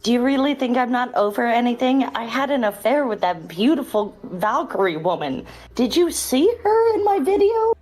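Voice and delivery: mildly indignant, disgusted retort; disbelief and disgust. Acted. Boasting of an affair to an ex, disbelieving disgust. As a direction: scoff in disbelief, pitch leaping on the question. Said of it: "look at you in disbelief and disgust".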